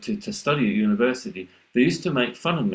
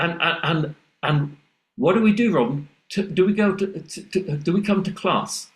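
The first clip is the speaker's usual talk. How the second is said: higher, stammering mock-posh voice; mocking posh classmate; 5 semitones higher than usual. Classmates mocking Robin's northern accent in a high teasing voice. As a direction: ham up the teasing southern student. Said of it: "And they'd say".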